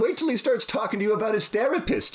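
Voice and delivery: high, giggly English courtier; hammed-up high English voice; mock English accent. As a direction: gossip to the queen in put-on English. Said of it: "the Englishman in me".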